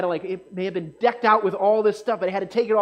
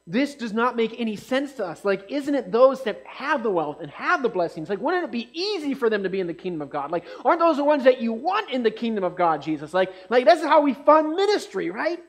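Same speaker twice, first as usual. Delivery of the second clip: mock-baffled disciples, climbing higher and louder to the end; puzzled disciples; 5 semitones higher, 4 dB louder than usual. Preacher voices disciples questioning Jesus about the rich, rising in mock protest. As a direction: voice the disciples' disbelief, pushing up on fund ministry. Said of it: "They're like, like".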